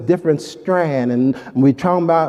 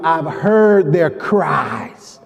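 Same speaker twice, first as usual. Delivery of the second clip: slow tender quote; much slower than usual. Acted. God's words quoted slowly.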